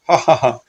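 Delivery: acted ha-ha-ha; spoken-out laugh at a fall; mock laughter. Havaldar watching the boss fall, mock laughter.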